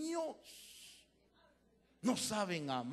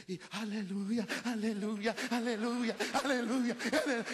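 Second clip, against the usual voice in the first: mock worship build; 3 semitones higher, 5 dB louder than usual. Imitating emotional worship chant.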